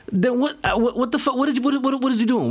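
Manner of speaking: high, baffled what-the-fuck; incredulous outburst. Acted. To viewers, mocking the silent match, incredulous. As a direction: play it as stunned disbelief at the ghosting match.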